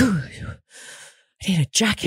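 mock chilly whine; shivery mock Texan. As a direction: pretend to be freezing. Mocking cold Texans.

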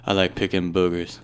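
deadpan it like a robot; weird monotone voice. Retold or imitated. Friends riffing on a player's voice, low monotone mimic. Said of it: "with that weird monotone voice".

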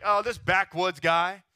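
mock the backwoods preacher with growing disdain; lightly voiced snobby townsfolk scoffing; scornful crowd. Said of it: "They're all looking at him like".

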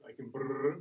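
rolled R. Shown as a demonstration. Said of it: "I can roll my R's".

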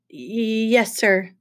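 hesitant, stuttered yes; nervous stammer. Acted. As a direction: trip on the first sound as you obey. Grover sweats, answering his boss.

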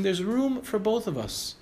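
nicely put, drawn out. Retold or imitated. Driver talking to a blocking trucker, very nicely. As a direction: draw it out in a polite, nice appeal. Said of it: "I very nicely said to him".

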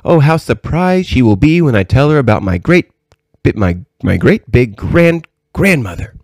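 put-on high, lilting little-girl excitement; eager young princess. Princess telling her grandmother of Nursey's surprise, high and eager.

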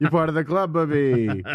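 lightly voiced Jewish grandmother, through laughter; a playful hint of doting Jewish grandmother. Podcaster teases co-host's slip, lightly as a Jewish grandmother. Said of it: "a Jewish grandmother".

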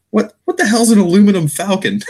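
high, laughing quote; laughing while quoting. Retold or imitated. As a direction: squeal it through laughter. Quoting Vader sketch, laughing.

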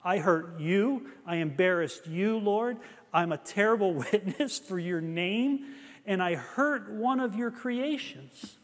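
acted tearful apology, lightly pleading; retold weeping. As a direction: plead for forgiveness, mildly anguished. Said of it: "uncontrollably weeping".

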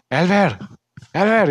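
high imitated name call; mock calling out. Coworker calling out a new nickname hours later, mock calling out.

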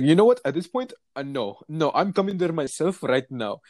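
mock-indignant, punching the opening; retold aggressive caller. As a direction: act out a caller who's had enough. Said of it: "he started getting aggressive with me".

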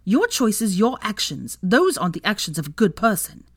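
high, loud sisterly dressing-down; outraged scolding. A narrator's reading. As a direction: tear into your brother, ashamed of him. Sister publicly scolds her brother.

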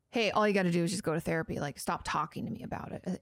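quick, offhand mock brush-off; dismissive. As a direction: brush them off in a hurry. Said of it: "It can be very dismissive".

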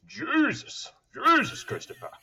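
high, loud Boston-accented imitation of dad; imitating his late father's Boston accent; dad's Boston accent. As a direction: do your dad's Ted Kennedy Boston voice, laughing. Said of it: "I might need an impression right now".

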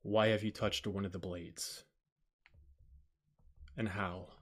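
low, quiet, lips barely moving; stoic creature voice. Acted. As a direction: speak through a still jaw like a stone guardian. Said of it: "speak without barely moving his mouth".

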